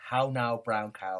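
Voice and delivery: slow, over-careful elocution practice; slow elocution drill. Shown as a demonstration. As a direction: enunciate each word slowly. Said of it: "you just say to yourself".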